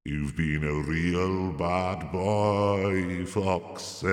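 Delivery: drawn-out, low teasing ghost voice; slow ghostly taunt. Acted. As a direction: scold him like a spooky ghost. Ghost taunts him slowly.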